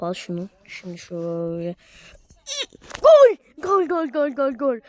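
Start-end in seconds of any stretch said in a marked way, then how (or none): 3.0-4.8 goal shout trailing into chant; screaming football commentator. Real, not acted. Celebrating own goal.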